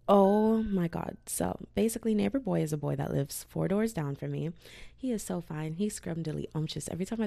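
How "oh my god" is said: slow, louder "oh my God"; sudden realisation. Real, not acted. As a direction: draw it out in shock. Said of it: "I've never talked about Neighbor Boy".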